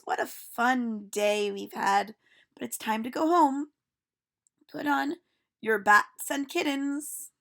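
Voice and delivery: put-on a cheerful teacher calling out to children; silly teacher voice. Teacher speaks.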